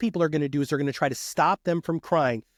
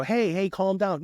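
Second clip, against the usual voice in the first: mock calming; 5 semitones higher, slower than usual. Calming an angry person.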